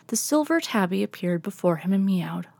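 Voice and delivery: ordinary delivery, nothing marked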